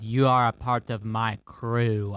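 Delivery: lightly put-on villain voice ending in "ah"; botched sea villain accent; Davy Jones impression. Podcaster claiming a new crew member, lightly voiced villain. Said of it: "that sounded a lot like, um, what Steve Martin".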